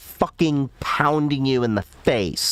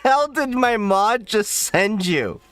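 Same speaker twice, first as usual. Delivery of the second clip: shocked; 11 semitones higher than usual. Real, not acted. Reacting to mod's strange message.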